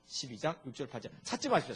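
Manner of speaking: normal talking voice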